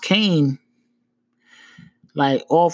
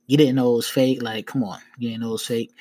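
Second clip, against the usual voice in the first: low, skeptical mock question; smirking cop; 4 semitones lower than usual. Cop doubting the fake bill excuse, smirking. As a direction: trail down through a smirk, not buying it. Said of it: "he kinda smirked it".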